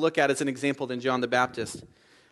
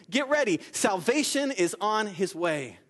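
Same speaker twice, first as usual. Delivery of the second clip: herald announcing; 4 semitones higher, slower than usual. Retold or imitated.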